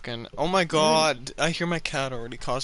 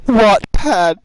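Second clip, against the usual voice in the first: loud outraged; 5 semitones higher, 13 dB louder than usual. Real, not acted. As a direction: shout the name in disbelief. Outraged reveal of the site.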